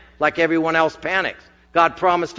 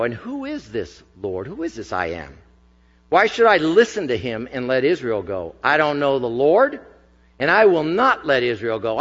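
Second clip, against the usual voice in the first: dismissive Pharaoh; 4 semitones lower than usual. Acted. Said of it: "retorted Pharaoh".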